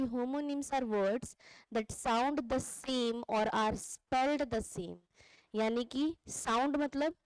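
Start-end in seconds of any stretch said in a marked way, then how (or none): 0.0-5.0 slow dictation. Shown as a demonstration. Reads definition in class.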